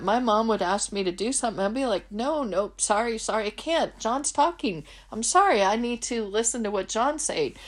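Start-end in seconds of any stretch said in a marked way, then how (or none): 2.1-7.6 put-on higher, breathless lovestruck teen brushing off mom; giddy teen self. Teenage daughter refusing her mom, giddy and higher. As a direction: beg off eagerly, can't tear yourself away.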